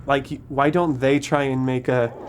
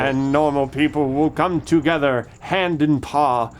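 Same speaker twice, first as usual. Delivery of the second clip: grand speech; slower than usual. Pretend. Parodies famous dream speech.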